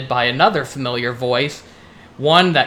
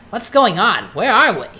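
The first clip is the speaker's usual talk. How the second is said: Conker voice; 7 semitones higher, 4 dB louder than usual. Acted. Conker asks in hell.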